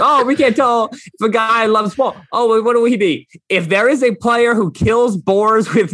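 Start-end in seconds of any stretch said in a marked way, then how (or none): 0.0-3.3 raised, whiny-doubter imitation; mock hand-wringing. Mimicking people blowing smoke about character, mocking higher voice.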